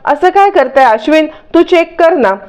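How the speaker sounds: put-on worried for the old woman; alarmed worry. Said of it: "सगळेजण आता घाबरे घुबरे होतात".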